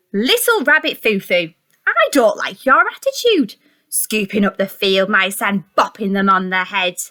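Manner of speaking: storybook fairy scolding a rabbit; stern fairy. Acted. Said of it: "Down came the good fairy and said".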